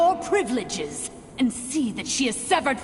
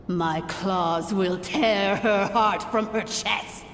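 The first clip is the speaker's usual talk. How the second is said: savoring the coming revenge; menacing vow; 4 semitones lower than usual. Acted. Villain vows secret revenge.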